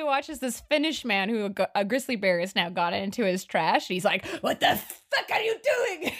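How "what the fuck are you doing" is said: high, slow mock outcry; imitated indignation. Man catching a bear in his trash, imitated indignation. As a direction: stretch it out in high disbelief, amused.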